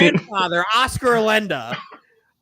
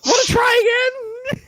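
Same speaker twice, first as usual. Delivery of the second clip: teasing challenge; 14 semitones higher, much faster than usual. Real, not acted. Mocking challenge to friend.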